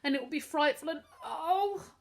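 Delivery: high, rising to a wail; sobbing boy giving up hope. A narrator's reading. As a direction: break down at the end. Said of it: "With a loud wail".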